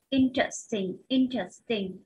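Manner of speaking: "Interesting" stressed on IN; teacher's drill of "Interesting", stress up front; stress on first syllable. Shown as a demonstration. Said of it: "nhấn vào âm một".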